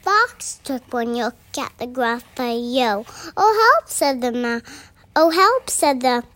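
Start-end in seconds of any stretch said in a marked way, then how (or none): 3.4-3.9 high, loud yelp for help; alarmed cry. Acted. Fox seeing the Gruffalo, high cry of alarm. 5.2-5.7 high, loud yelp for help; alarmed cry. Acted. Fox seeing the Gruffalo, high cry of alarm.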